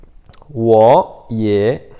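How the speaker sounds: 我也 very slow and loud, each syllable separate; tone demo. Shown as a demonstration. Teacher repeats for learners, 我也 loud and drawn out. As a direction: stretch 我也 firmly for repetition. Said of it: "Então, de novo".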